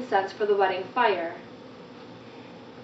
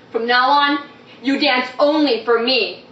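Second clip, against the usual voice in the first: possessive command; 2 semitones higher, 5 dB louder than usual. Acted. Husband's possessive command quoted.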